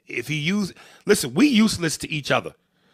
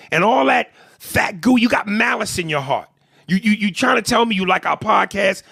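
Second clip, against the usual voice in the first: heated, higher-pitched telling-off; indignant rant; 4 semitones higher than usual. Real, not acted. Comedian telling off a blocked fan, indignant. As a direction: tear into him indignantly. Angry rant at absent heckler.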